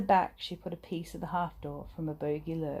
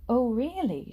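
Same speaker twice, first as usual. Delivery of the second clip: thrilled gasp; 5 semitones higher, 5 dB louder than usual. A narrator's reading. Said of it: "she said".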